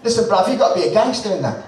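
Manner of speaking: mock Cockney, quick street-talking producer; hammy, amateur Cockney at a quick pace; bad Cockney accent. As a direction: put on a clumsy London Cockney accent. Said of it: "That's shit cockney accent".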